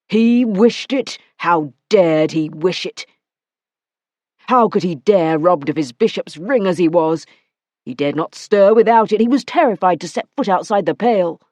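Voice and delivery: man outraged by her news; Matthew, incredulous. Acted. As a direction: throw her words back at her. Matthew in disbelief.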